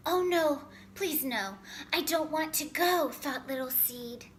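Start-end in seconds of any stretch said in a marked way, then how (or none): 0.1-3.1 high, loud frightened plea; frightened pleading. Acted. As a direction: beg not to go.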